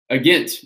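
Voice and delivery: "agent" said as "A Gint"; accented "agent". A narrator's reading. Rennie answers who Tom is, accented "A Gint". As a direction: stress the end of "A Gint", with a short i. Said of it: "in his deep accent".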